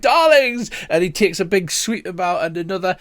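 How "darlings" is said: theatrical darlings. Acted. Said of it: "he's like".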